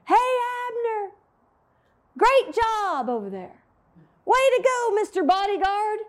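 high, sarcastic taunt called across the camp; David taunting the enemy commander, in a high sarcastic call; mocking yell. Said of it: "and he yells".

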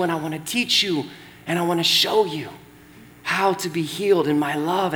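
a lightly voiced Jesus, quiet and tender; gentle invitation, said softly. Pastor voices Jesus speaking to us.

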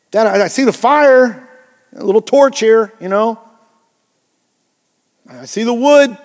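a hint of a confused son asking Dad; puzzled boy Isaac. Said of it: "Isaac voiced asking father".

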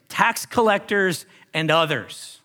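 "tax collectors and others" read slowly, each word set apart; slow down to flag the phrase; marked phrase. Shown as a demonstration. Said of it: "pay attention to this phrase".

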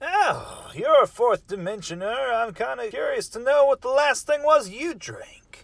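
ordinary delivery

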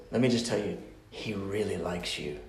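soft, low counselor's voice; gentle reassurance. Retold or imitated. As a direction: confide it quietly to the client. Gently insisting to counseling client.

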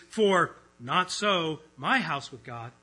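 slow, stiff word-by-word reading; a slow, literal translation read out; wooden literal reading. Shown as a demonstration. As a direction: give each word its own weight, slowly. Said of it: "the very next verse literally le-, reads".

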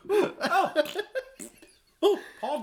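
high, prim mock-posh Oh, pardon. Mock-prim reply to the Thatcher jibe, high and posh. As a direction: play the offended lady.

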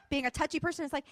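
ordinary talk

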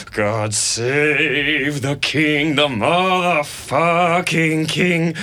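put-on very slow, loud drunken anthem; drawn-out mock toast. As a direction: stretch the words out like a drunk. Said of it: "Jack repeats it mockingly".

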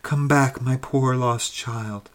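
a mild, understated tearful call; a touch of a crying mother calling her child home; weeping mother. Acted. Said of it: "she wept and cried".

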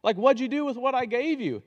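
high, loud call to the crowd; Jesus demanding an account. Retold or imitated. Returning Jesus calls his servants to account, high and loud. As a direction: boom out the question like a returning master. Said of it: "and he's gonna say".

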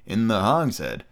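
slow, drawn-out segment intro; grand announcer. Acted. Podcaster presenting this week's chapters to listeners, slow grand announcer. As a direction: announce each chapter with ceremony.

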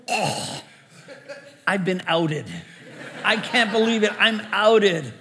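caught-out pastor laughing in mock shock; mock dismay. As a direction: ham up being caught out with a laugh. Mock dismay at being outed.

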